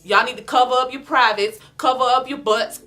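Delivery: high, loud calling her out to the room; loud public call-out. Retold or imitated. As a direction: shout it out so everyone hears.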